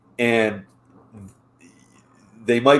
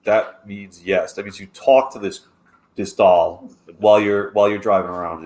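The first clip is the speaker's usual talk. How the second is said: knowing teasing; 3 semitones lower than usual. Retold or imitated. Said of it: "And I'm like".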